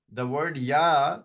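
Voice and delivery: slow "ya" held long and rising; "ya" stretched out as a teaching demo; drawn-out ya. Shown as a demonstration. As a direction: linger on "ya" like a long vowel. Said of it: "it actually means e".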